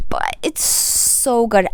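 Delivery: breathy whispered gush; a hushed little confession. Real, not acted. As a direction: whisper it like a secret. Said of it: "whispered gush".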